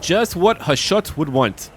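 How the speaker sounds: lightly voiced villain savoring the line; a hint of a fanatical dwarf priest; Chaos Dwarf zealot. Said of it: "I don't know why I had to say it".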